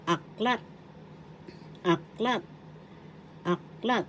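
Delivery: aklat rising onto LAT; stress on second syllable. Shown as a demonstration. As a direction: say aklat as ak-LAT, lifting the end. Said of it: "The accent is in the second syllable".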